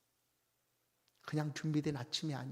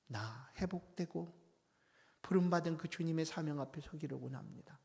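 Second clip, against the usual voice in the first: humble prayer; 2 semitones higher than usual. Pretend. Sample confession prayer to the Lord.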